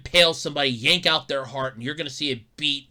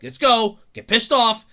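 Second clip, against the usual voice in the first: pleading Banner; 4 semitones higher, 6 dB louder than usual. Retold or imitated. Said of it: "where Banner's like".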